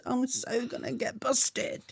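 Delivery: whispered, slow and worried; hushed aside to herself. Retold or imitated. Whispering her worry in the chapel room. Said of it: "And I'm like".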